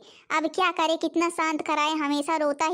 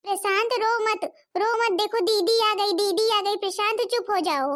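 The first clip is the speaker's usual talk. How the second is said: higher-pitched voice of a concerned sister; soothing big sister; 5 semitones higher than usual. Acted. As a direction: hush a crying little brother. Sister soothes crying little brother. (रोते भाई को चुप कराती दीदी)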